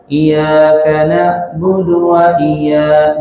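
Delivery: iyyaka with the ya light and unstressed, vowel drawn out; slow chant of "Iyyaka" without doubling the y; common misreading. Shown as a demonstration. Teacher showing students the common slip, misread lax iyyaka. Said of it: "Kebanyakan orang baca".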